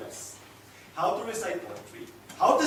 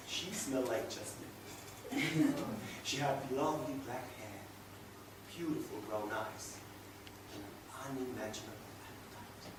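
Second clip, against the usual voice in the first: low, soft, savouring each feature; hushed and lingering, with pauses between features; dreamy admiration; 8 semitones lower, 14 dB quieter than usual. Acted. Man describing the wife he married in Seville, dreamy.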